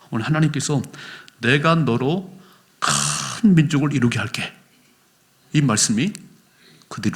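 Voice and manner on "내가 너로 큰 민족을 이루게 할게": slow, deliberate promise as God. Acted. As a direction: speak God's promise slowly and gravely. God's promise voiced in sermon. (하나님의 약속을 천천히 엄숙하게)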